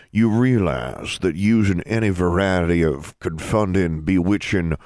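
measured, official warning in a dean's voice; stern dean. Acted. Dean warns a student about charms, stern. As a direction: lay down the rule as a dean would.

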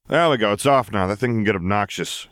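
easygoing henchman brushing off a nuisance; lightly voiced vampire. The vampire speaks.

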